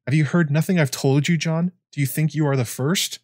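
a hint of an old man pressing his point. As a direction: push the question, gently insistent. Aemon rebukes John, pitch up.

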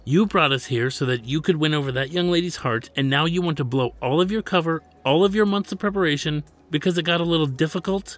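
exasperated telling-off; scolding. A narrator's reading. Manager scolds his reluctant master.

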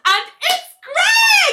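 high, loud, gleeful announcement; excited reveal. Real, not acted. Telling the friend the doctor is Greg, thrilled. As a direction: blurt it out with delight.

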